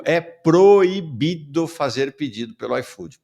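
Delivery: slow, deliberate stress on "proibido"; emphatic slogan. Real, not acted. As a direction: spell out "proibido" slowly as a firm rule. Host proclaims the strike slogan.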